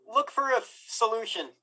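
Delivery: heavy reverb, like in a canyon; canyon echo. Real, not acted. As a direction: voice echoing off canyon walls. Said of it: "It sounds like you're in a canyon".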